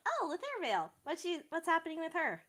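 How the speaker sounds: bright, eager and high; excited. Acted. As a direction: perk up with delight. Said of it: "Octavia brightens up like".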